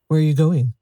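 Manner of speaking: a hint of breathless strangeness; strange breathless voice. A narrator's reading. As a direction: ask it lightly out of breath, oddly. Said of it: "in a strange, breathless voice".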